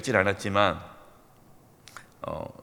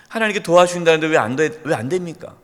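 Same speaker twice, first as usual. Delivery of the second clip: 1 grumbling complaint; 3 semitones higher, 5 dB louder than usual. Retold or imitated. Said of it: "원망한 적은".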